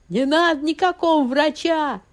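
high, loud, slow squealing answer; shrill refusal. A narrator's reading. Husband squeals back at his wife, refusing a doctor. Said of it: "визгливо ответил Горюнов".

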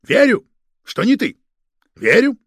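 high, loud shout. Acted. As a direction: yell it back at him. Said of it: "в ответ закричал фон Шпинне". (крик в ответ)

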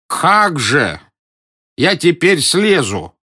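high, slow frightened protest; a scared old man clinging to a tree; trembling. A narrator's reading. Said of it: "дрожа отозвался Близорукий". (дрожащим испуганным голосом)

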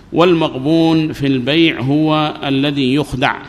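والمغبون في البيع هو الذي يخدع read slowly, word by word; slow, clear dictation pace. Shown as a demonstration. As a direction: spell it out slowly for the class. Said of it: "slow dictation take".

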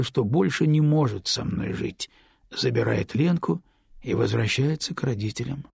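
ordinary delivery, nothing marked

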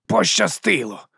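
«Пощастило!» drawn out slowly, high and scornful; mock the word back at him; contemptuous mimicry. Boss mocking the guard's guess with «Пощастило!», slow and scornful. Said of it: "перекривив зневажливо".

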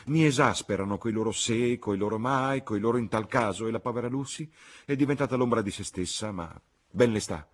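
a mother venting her fed-up complaint; exasperated cry. A narrator's reading. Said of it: "gridò la signora Honeychurch".

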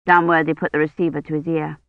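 normal talking voice

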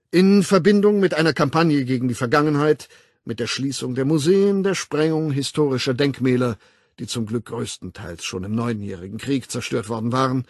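emphatic public lecturer; lecturing World Controller. Acted. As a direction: hold forth with authority, punching key words. Weltaufsichtsrat doziert. (dozierend, nachdrücklich)

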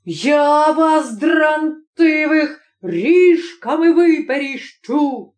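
put-on furious prosecutor threatening his children; angry threat. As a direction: threaten them with a switch. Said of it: "загримав несамовито прокурор".

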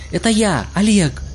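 high urgent yell; yelling in his ear. A narrator's reading. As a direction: shout him awake. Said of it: "заорала у него над ухом".

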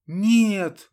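high, loud desperate no; heartfelt cry. Acted. Ludmila covers Saburov's body with a high, loud cry. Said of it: "выпалила она в сердцах".

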